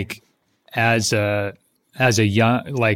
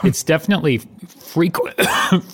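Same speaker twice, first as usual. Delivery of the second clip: fake coughing; 3 semitones higher than usual. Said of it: "Choking Every Other Word".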